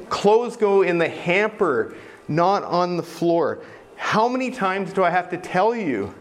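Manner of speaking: lightly voiced fed-up parent; nagging parent. Parent nagging a child about the clothes hamper, mock exasperated. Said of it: "saying things to me like".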